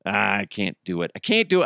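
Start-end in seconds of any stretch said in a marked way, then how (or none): 1.1-1.7 much higher put-on voice; high goofy Wahlberg line; Wahlberg attempt. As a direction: squeak it as the failed impression. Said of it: "I need to work on it".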